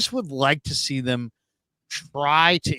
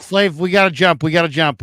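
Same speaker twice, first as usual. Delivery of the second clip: raised, urgent wrap-up call; loud rush to cut to break; 2 semitones higher, 5 dB louder than usual. Real, not acted. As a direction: hurry everyone along before the break. Host hurrying to end segment.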